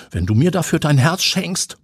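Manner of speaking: cheeky, daring offer; bold flirt. A narrator's reading. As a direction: play it cocky and bold. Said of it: "pokert Benno mutig".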